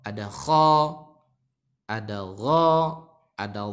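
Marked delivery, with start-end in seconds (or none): 0.3-0.7 "kho" with a rounded o, held and louder; O vowel. Shown as a demonstration. Teacher lists heavy letters, "kho" with O vowel. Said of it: "pakai vokal O". 2.3-2.7 "gho" with a rounded, held o; O vowel. Shown as a demonstration. Teacher lists heavy letters, "gho" with O vowel. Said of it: "pakai vokal O".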